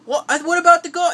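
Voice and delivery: high, loud confused question; bewildered. Retold or imitated. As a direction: ask it baffled. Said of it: "he's like".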